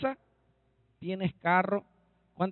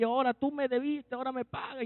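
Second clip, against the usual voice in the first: demanding creditor; 4 semitones higher, 5 dB quieter, faster than usual. Acted. Servant keeps choking the one who owes him, mock demand. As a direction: insist on payment while acting out a throttling. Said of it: "y lo ahogaba".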